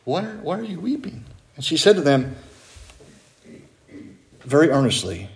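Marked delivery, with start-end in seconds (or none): 0.0-1.2 compassionate. Retold or imitated. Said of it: "with compassion".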